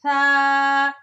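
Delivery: "सा" said softly, tongue tip touching the upper teeth; soft thaa. Shown as a demonstration. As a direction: give "सा" a soft lisped th sound. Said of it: "इसको नरमी से पढ़ेंगे". ("सा" नरमी से, ज़ुबान की नोक दांतों पर)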